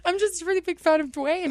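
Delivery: high, tearful fangirl whine; mock crying. Caught by his cousin in the hallway, mock-crying fan. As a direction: whimper it comically, as if blubbering. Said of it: "so I'm just crying".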